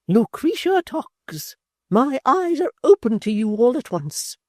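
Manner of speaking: high, loud, slow grand pronouncement; stately high indignation; majesty. A narrator's reading. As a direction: speak like an offended queen. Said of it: "with majesty".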